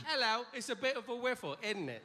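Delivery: lightly voiced prim English accent, quick; posh British lady. Comic imitating a British lady's original speech. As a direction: chirp it like a genteel British lady. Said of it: "her whole life was like".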